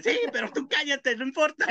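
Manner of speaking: high, dismissive shush; bossy grandma hush. Retold or imitated. Grandma to a curious old lady, high dismissive hush. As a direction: brush off the nosy old lady.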